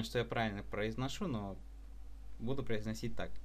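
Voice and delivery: ordinary delivery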